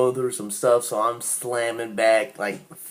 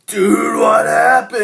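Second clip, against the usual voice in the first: higher, louder, panicked friend's cry; alarmed friend; 10 semitones higher, 7 dB louder, slower than usual. Retold or imitated. Friend finding him on the ground, alarmed shout. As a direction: call out to him in shock, much higher. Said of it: "He's like".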